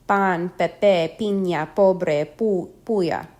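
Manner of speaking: Pan, pepe, piña, pobre with P close to B, no puff of air; unaspirated P. Shown as a demonstration. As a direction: say puya with an unaspirated P, nearly a B. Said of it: "It is not followed by a puff of air".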